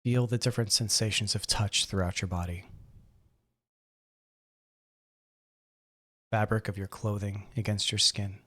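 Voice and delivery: calm, measured meditation guide, long pauses between phrases; guided meditation. Acted. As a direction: gently guide them into breathing and relaxing. Leads a seated breathing meditation.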